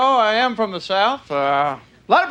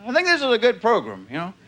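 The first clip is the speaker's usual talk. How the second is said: ordinary talk, nothing marked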